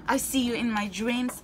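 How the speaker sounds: usual speaking voice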